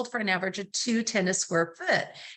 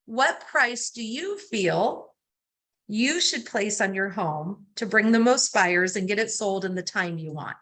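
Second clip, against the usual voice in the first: slow and deliberate; 2 semitones lower than usual. Shown as a demonstration. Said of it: "I'm going like this".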